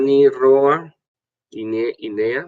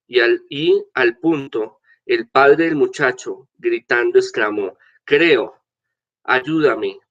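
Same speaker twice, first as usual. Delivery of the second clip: scripture reading; 2 semitones higher than usual. Acted. Priest reads the gospel aloud.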